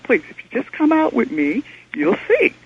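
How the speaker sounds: high, pleading plea to come see; begging him outside, pitch soaring; excited plea rising to a squeak; urgent pleading. Retold or imitated. Pleading with the clerk.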